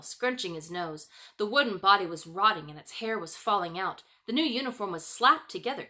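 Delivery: ordinary delivery, nothing marked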